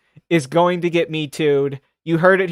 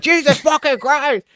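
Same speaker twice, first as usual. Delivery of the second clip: much higher mock terror; mock panicked scream; 10 semitones higher than usual. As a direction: squeal like you're being attacked. Retold victim screaming in story.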